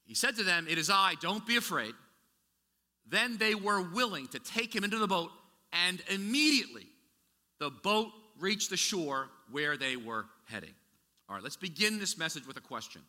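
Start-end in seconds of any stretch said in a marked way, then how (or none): 0.0-10.7 scripture reading. Shown as a demonstration. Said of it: "let me say it one more time".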